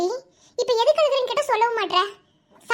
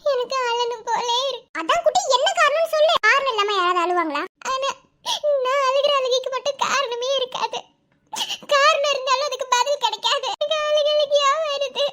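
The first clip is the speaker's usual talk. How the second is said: tearful crying; 4 semitones higher than usual. Acted. Girl crying without reason.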